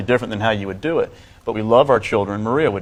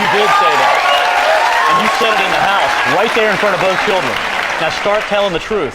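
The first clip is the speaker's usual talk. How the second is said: angry confrontation; 6 semitones higher, 3 dB louder than usual. Real, not acted. Son confronts mother on stage.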